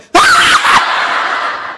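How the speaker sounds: very high, piercing mock laugh; put-on shriek of laughter trailing away; imitated sudden laugh. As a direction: mimic her alarming burst of laughter. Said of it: "bà cười".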